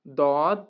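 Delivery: "দদ" thick, from the left molars; "দদ" as an emphatic Arabic Dad; heavy Dad. Shown as a demonstration. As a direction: give "দদ" a full, heavy first d. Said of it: "দদ মোটাভাবে".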